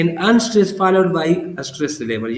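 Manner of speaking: very slow, word-by-word definition; slow dictation. Shown as a demonstration. Teacher defining the iamb in very slow dictation. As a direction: lay each word down slowly for note-taking. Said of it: "उसको हम क्या कहते हैं?".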